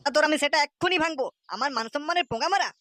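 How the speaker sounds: angry threat. Acted. Father threatens son.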